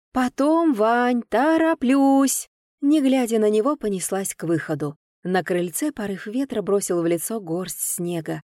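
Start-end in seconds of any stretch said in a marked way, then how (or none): 0.1-2.5 high, rushed hurry; hurried brush-off. A narrator's reading. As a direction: brush him off on the run. Heroine hurries, brushing him off.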